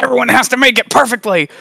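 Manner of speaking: high, fast, fussy demand; nervous perfectionist boss; uptight. Retold or imitated. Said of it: "I was so uptight".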